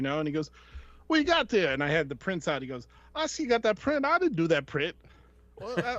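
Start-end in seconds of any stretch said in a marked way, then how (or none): 1.1-1.7 high Barbarino-style wise-guy voice; much higher New York voice; artist's voice. Retold or imitated. Voicing the artist at booth. 3.1-5.0 high Barbarino-style wise-guy voice; much higher New York voice; artist's voice. Retold or imitated. Voicing the artist at booth.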